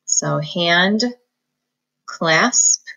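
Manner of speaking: "hand" then "clasp" apart; each part on its own; slow decoding; syllable split. Shown as a demonstration. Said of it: "right in between".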